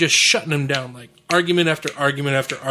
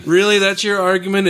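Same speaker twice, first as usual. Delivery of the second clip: "Really?" thrown out higher and louder, rising in disbelief; incredulous scoff; 6 semitones higher, 4 dB louder than usual. Retold or imitated. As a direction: scoff at a weak argument, pitch jumping up. Retold scoffing at the watchmaker argument.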